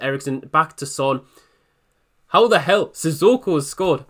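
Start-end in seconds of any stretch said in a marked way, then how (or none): 2.3-4.1 loud, high burst of shock. Real, not acted. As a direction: blurt it out, caught off guard. Shock at unlikely goal.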